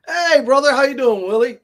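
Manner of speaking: loud, high greeting shout; calling out. Real, not acted. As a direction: call out to a buddy. Calling out to a viewer.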